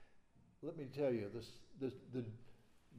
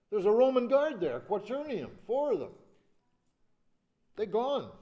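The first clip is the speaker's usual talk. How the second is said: emphatic preaching; 7 semitones higher, 9 dB louder than usual. Real, not acted. Preacher building to emphatic point.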